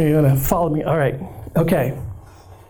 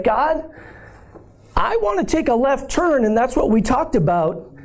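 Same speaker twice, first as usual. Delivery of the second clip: raised, half-joking plea; pleading with God; 5 semitones higher than usual. Retold or imitated. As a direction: ask God for a detour, mock-earnest. Voicing his own plea to God.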